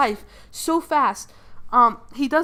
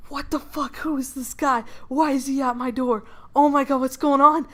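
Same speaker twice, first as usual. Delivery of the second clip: higher-pitched acted panic, building in volume; mock freaking out; 4 semitones higher than usual. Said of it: "as he's freaking out".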